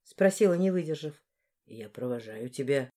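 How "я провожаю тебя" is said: deep, low, quiet man's voice; a man speaks low and steady; lowered male voice. Acted. Boss tells her he is seeing her home, in a low voice.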